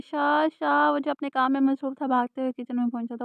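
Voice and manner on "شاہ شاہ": loud calling out for help; mild loud cry of Shah from the kitchen; shouting his name. A narrator's reading. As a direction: call him urgently, loudly. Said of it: "زور زور سے چلانے لگے".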